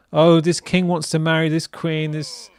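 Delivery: mock bored kid. Streamer as his childhood self hearing history class, mock bored. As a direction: reel it off as tedious history. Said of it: "not boring, right? And when I was a kid".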